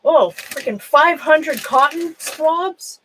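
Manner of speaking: slow, drawn-out astonished disbelief. Real, not acted. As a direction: stretch it out as if you can't believe your eyes. Finding absurd pile of swabs.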